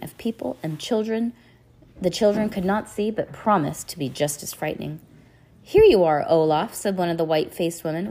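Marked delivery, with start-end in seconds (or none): 5.6-6.7 woman troupe member. A narrator's reading. White-faced woman greets Olaf.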